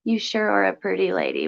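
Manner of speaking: put-on lightly country-accented reading aloud. Streamer reading a viewer's compliment aloud, slight country accent. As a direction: read it with a slight country twang. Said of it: "country accent".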